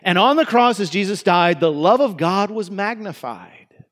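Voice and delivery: mock-cheerful version of the line; altered lyric. Preacher imitating churches singing the softened lyric, lightly cheerful. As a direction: lift And on the cross brightly, then the love of God was magnified. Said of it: "or they were singing it this way".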